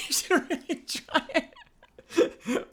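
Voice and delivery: high goblin voice breaking into laughter; drawn-out goblin coaxing through giggles. Acted. Streamer cracking up as the goblin cook, laughing goblin voice. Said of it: "these goblins are something else".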